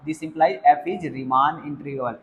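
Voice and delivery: very slow, word-by-word dictation. Shown as a demonstration. Teacher dictating a rule to students, slow and deliberate. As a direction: spell the result out slowly for students to copy.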